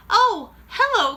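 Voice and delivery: put-on high, slow sweet old lady; sweet grandmother voice. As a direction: greet her calmly like grandma. Grandmother answers calmly.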